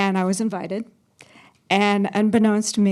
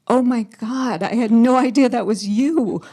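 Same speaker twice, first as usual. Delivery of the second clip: slightly raised, emphatic mock astonishment; retold embarrassed surprise; 2 semitones higher, 4 dB louder than usual. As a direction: replay a mortified realization, mildly. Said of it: "I was so embarrassed".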